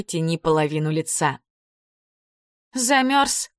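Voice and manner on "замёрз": тихо, участливо. A narrator's reading. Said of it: "спросила она".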